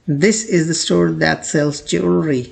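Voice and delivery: slow teacher's example reading; slow example sentence. Shown as a demonstration. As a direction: read slowly as a model. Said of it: "ज्वेलरी".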